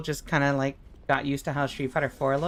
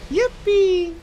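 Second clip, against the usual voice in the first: high, loud joyful yippee; sudden shrill-free burst of glee, much higher and louder; 1 excited squeal; 14 semitones higher, 6 dB louder than usual. Acted. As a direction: squeal it like a cartoon cheer. Celebratory squeal.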